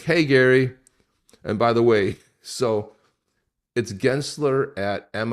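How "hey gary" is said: mock cheery greeting. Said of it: "He's like".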